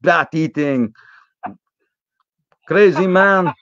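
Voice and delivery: lightly put-on Polish restaurant owner; mock Polish accent. Restaurant owner scolds the sick guest, mild Polish accent. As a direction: play the gruff owner with a hint of Polish accent. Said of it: "You sound just like Olaf".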